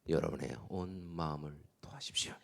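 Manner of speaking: hushed, intimate whisper to the congregation; whispered plea. Acted. Pastor urging the congregation to pour out their hearts, whispered. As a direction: breathe it out like a secret prayer.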